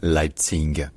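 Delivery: Leipzig ending in a voiced hard g sound; wrong "Leipzig", final G sounded as a g; mispronounced with a G. Shown as a demonstration. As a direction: say Leipzig with a g at the end. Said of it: "ça ne se prononce jamais comme ça".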